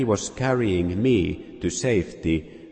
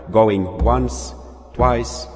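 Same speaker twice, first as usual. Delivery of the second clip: louder going once, twice; auctioneer's call; 3 semitones higher, 5 dB louder, slower than usual. Acted. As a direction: count down the sale. Auctioneer closing sale.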